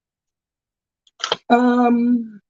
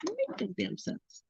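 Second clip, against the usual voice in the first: slow drawn-out repeat; 8 semitones higher, 12 dB quieter, slower than usual. Shown as a demonstration. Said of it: "I say".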